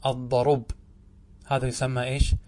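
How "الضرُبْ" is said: "الضرب" repeated as ad-darub, stopping on b; pause by transfer. Shown as a demonstration. Teacher repeats the pause form, "الضرب" said ad-darub. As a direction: put u after r in "الضرب", none after b. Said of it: "انقلها إلى الراء وسكن الباء".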